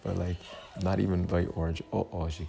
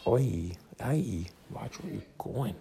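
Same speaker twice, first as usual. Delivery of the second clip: calling out; 5 semitones higher, slower than usual. Real, not acted. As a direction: call out to someone about to bump you. Calling out at someone passing.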